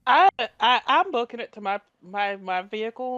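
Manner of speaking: high, loud stammer trailing off; panicked stammer. Acted. Woman panicking as she flees to her vehicle, stammering high. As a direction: stumble over the words in a panic.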